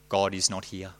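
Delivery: soft, low, eerie echo; hushed horrifying judgment; hideous whisper. Acted. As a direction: breathe the verdict like a ghostly echo. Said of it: "a hideous echo whispering".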